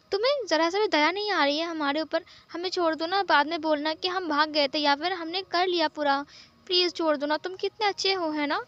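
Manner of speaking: mildly whiny begging with coaxing flattery; lightly acted sweet-talking; wheedling plea. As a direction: coax him to let you off. Begging to be let off.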